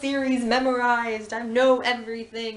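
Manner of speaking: a touch of hammed-up frustration; frustrated whine. The character complains he knows all the theories, frustrated. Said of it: "he gets frustrated and says".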